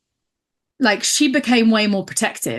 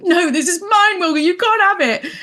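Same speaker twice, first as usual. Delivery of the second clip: higher, indignant telling-off of the cat; mock argument; 9 semitones higher than usual. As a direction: scold the cat like a real rival. Arguing with the cat.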